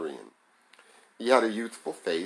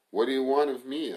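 a firm demand, pitched up a little; 5 semitones higher, 3 dB louder than usual. A narrator's reading. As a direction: press her for an answer. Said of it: "I demanded".

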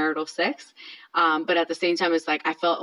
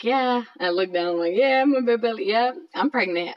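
high, innocent chirp, higher pitch; naive reply; 5 semitones higher than usual. Retold or imitated. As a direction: play it clueless and sweet, as if nothing could be wrong. Wife retells naive reply, husband's confession.

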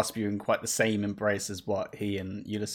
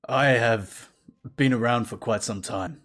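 calm priest voice. Acted. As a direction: speak like a patient, wise priest. GM voicing temple priest.

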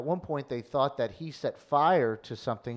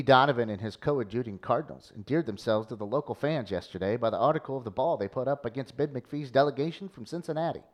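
lightly voiced old newspaper reporter; old-timey voice. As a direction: read like a vintage sportswriter. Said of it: "Old-timey voice".

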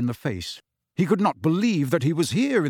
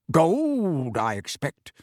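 mild anger; 3 semitones higher, much slower than usual. A narrator's reading. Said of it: "said Mister Weasley angrily".

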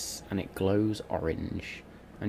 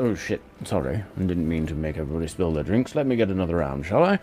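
lightly voiced tavern drunk, quick; Callum's voice; 3 semitones lower, much faster than usual. Callum apologizing to the party for spilled drinks. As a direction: rattle it off cheerfully. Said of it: "Callum just turns around and goes".

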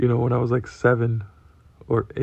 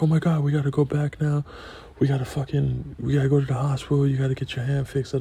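put-on panicked kid; 6 semitones higher than usual. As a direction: freak out, begging to go back. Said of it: "I was like".

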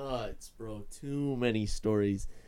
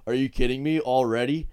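louder, indignant disbelief; retold outburst, raised voice; mock outrage; 7 dB louder than usual. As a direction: play the kid who can't believe he's in trouble. Classmate sent out, voiced indignantly.

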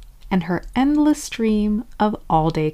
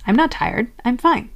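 higher, mock-insistent reassurance; dismissive denial; 4 semitones higher than usual. Squashing down your tiredness, dismissive denial. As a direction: brush it off in a higher voice. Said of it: "Trying to squash it down would sound like".

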